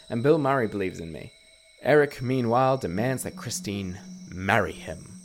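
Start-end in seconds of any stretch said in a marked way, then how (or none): 1.8-5.2 hammed-up heroic storyteller. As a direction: play the dashing rescuer, big and bold. Playful heroic narration, music.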